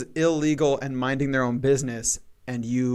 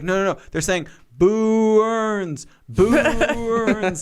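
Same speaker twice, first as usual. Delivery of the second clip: Smithers; 8 semitones higher, 5 dB louder, much slower than usual. Retold or imitated. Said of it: "he's like".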